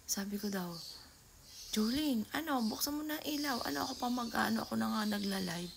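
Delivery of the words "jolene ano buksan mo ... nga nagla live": retold shouting. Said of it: "sigaw daw ako ng sigaw".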